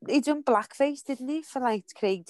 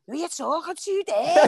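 higher, mock challenging voice; phone voice gone off; 7 semitones higher, 3 dB louder than usual. Mimicking her voice slipping on the podcast, higher mock voice. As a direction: snap back like the voice slipped. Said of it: "it's like".

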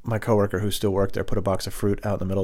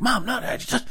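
very high, loud, strained protest; exasperated kid; 6 dB louder than usual. Retold or imitated. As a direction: whine at mom in mock despair. Kid pleading with mom.

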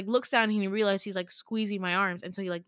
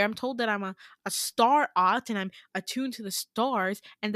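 retold rant climbing higher as it builds; annoyed, run-on venting; annoyed snap; 3 semitones higher than usual. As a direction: act out an exasperated outburst, pitch rising toward the end. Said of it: "snap because I'm getting annoyed with him".

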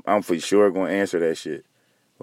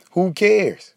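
dismissive high retort; 9 semitones higher than usual. Real, not acted. Ranting at rich men.

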